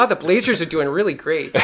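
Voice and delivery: light, upbeat Oregon accent; nice-as-can-be Portland accent with a laugh. Shown as a demonstration. Showing friends how Portland sounds, upbeat Oregon accent. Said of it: "a little bit of an uplift".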